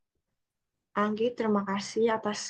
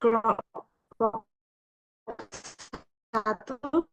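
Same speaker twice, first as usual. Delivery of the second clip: glitchy robotic call; much slower than usual. Real, not acted. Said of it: "suara kamu putus-putus".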